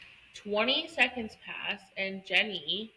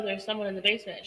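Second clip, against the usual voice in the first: insistent rush; much faster than usual. Retold or imitated. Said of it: "She's like".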